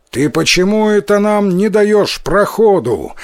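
выше и громче, требовательно; грозно окрикнуть великана; крик. A narrator's reading. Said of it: "крикнул Тикаротару". (сердитый крик)

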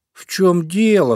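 slow, drowsy question; just woken, still half asleep; sleepy voice. A narrator's reading. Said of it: "сонным голосом спросил". (сонным голосом)

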